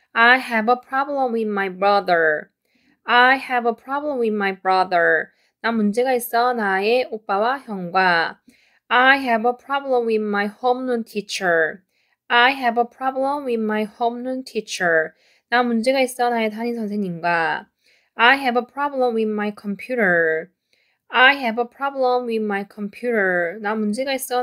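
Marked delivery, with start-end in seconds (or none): 0.1-5.3 slow and carefully clear; slow model reading. Shown as a demonstration. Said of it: "쭉 내려가면서 읽어보도록 할게요". 8.9-15.1 slow and carefully clear; slow model reading. Shown as a demonstration. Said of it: "쭉 내려가면서 읽어보도록 할게요". 18.2-23.6 slow and carefully clear; slow model reading. Shown as a demonstration. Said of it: "쭉 내려가면서 읽어보도록 할게요".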